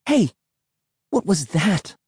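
high-pitched startled question; startled cry. A narrator's reading. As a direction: cry out in mild alarm. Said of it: "Emily cried".

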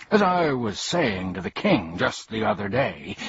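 lightly voiced boastful old gent; name-drop airily; pompous humbug. Humbug boasting about the king, lightly pompous.

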